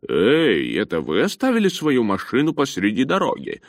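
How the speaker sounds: rough-and-ready driver calling out. A narrator's reading. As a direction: holler the question down at stranded walkers. Driver calls from truck window.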